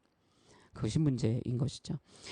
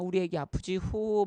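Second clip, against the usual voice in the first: lightly voiced mother blowing on a child's wound; comforting mom; 5 semitones higher than usual. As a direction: coo like a mom soothing a hurt baby. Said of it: "엄마가 막".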